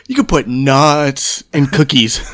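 mock-solemn, drawn-out statement; mock serious. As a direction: quote him earnestly, stretched out, amusement leaking in. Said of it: "did you see how serious Mister Sir".

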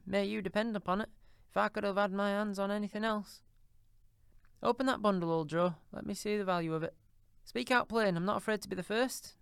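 put-on high, coarse old charwoman, brazen; a bold thieving charwoman, defiant. A narrator's reading. Charwoman urges Joe.

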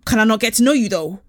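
a hint of a put-on suitor; put-on man's voice. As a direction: imitate his chat-up line, slightly exaggerated. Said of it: "No, he didn't speak like that".

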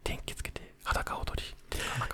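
ひそひそ声. Real, not acted. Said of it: "ひそひそ声で話をしていこう". (寝室でこっそり話すささやき声)

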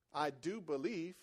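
soft, low and slow; hushed, unhurried reflection on the words; quiet restatement. Retold or imitated. Quieter repeat of the father's cry.

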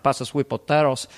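put-on light Scarface-style Cuban accent; catchphrase in a comic Cuban accent; Tony Montana accent. Tony Montana at Thanksgiving dinner, Cuban accent. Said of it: "in that accent".

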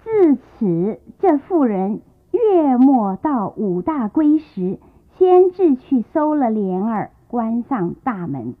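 very slow, weighty reading of the original text; reading the key line. Shown as a demonstration. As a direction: lay each word down for students to note. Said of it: "下面一句话很重要". (缓慢郑重地朗读原文)

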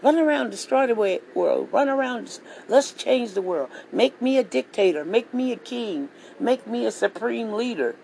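lightly voiced would-be king commanding; mock dictator orders. The leader ordering his minions around, mock commanding. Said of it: "He's telling all his minions".

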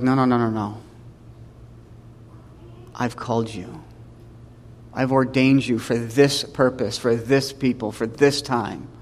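low, soft, measured reassurance; quietly insist, as God to a hesitant youth; gentle, firm God. Acted. Voices God gently insisting to Jeremiah.

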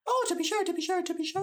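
hammed-up stage Irish "to be sure"; mock Irish accent. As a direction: overplay the Irish catchphrase. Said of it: "Irish, Irish".

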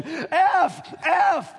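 high, loud mock game-show shout; hammed-up viewer shouting out guesses; yelling at TV. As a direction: yell letters at Wheel of Fortune. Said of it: "you'll just yell at home".

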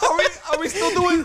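high, loud, stammering imitation; pleading youngster. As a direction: ask hopefully, tripping on the words. Imitating Julian's pleading question.

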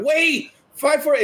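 high pleading call. Retold or imitated. Party begging the leaving knight, high pleading. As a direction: call after him high and desperate. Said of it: "We're like".

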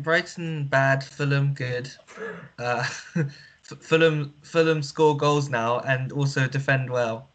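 flat robotic monotone. Acted. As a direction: talk like a deadpan robot. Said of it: "stop this stupid, like, robotic voice".

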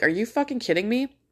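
high-pitched, incredulous irritation; trigger tripped. Acted. Shopper fed up with aisle blockers, incredulous. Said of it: "something that just kind of trips your trigger".

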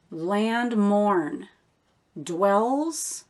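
"Land mourn" and "dwells" set apart by pauses, each stressed; emphasized key words. Shown as a demonstration. Teacher showing what the Lord is saying, stressing "Land mourn" and "dwells". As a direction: give "Land", "mourn", "dwells" separate weight. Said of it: "what I'm emphasizing".

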